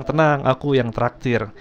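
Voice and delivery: slow, lightly imitated Batak accent. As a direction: draw it out with a hint of Batak. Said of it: "dari logat dan aksen bicaranya".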